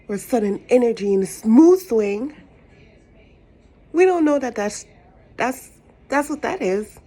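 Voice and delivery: loud, high, fired-up rant; worked-up rant. Real, not acted. Ranting loudly about witchcraft.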